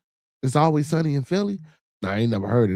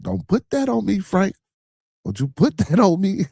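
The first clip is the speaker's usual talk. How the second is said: laughing protest; 7 semitones higher than usual. Real, not acted. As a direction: push the blame off with a laugh. Protesting he didn't start it.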